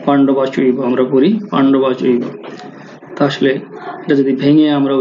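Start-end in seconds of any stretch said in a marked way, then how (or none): 0.1-0.8 পাণ্ডবাচৈব read straight through as written in Bengali. Shown as a demonstration. Teacher showing students the everyday Bengali reading, পাণ্ডবাচৈব run together. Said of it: "আমরা যদি বাংলায় পড়ি". 1.5-2.2 পাণ্ডবাচৈব read straight through as written in Bengali. Shown as a demonstration. Teacher showing students the everyday Bengali reading, পাণ্ডবাচৈব run together. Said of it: "আমরা যদি বাংলায় পড়ি".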